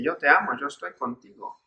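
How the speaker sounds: soft, fading to almost nothing; tender reassurance. Retold or imitated. Jesus reassuring the frightened listener, softly tender. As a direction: let it fall away gently, like a comfort.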